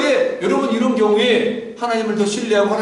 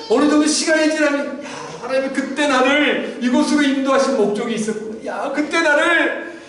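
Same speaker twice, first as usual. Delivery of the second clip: realization; 2 semitones higher than usual. Retold or imitated. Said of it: "성숙한 자는 하나님의 때를 발견해요".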